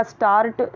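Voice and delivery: "स्टार्ट" with the R sounded; "स्टार्ट" with an audible R before the T; wrong pronunciation of start. Shown as a demonstration. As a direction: say "स्टार्ट" as starrt, R pronounced. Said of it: "नहीं बोलना है".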